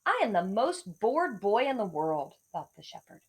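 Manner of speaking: lively storybook read with voiced bits; reading to children. A narrator's reading. Teacher reading a fable aloud to second graders.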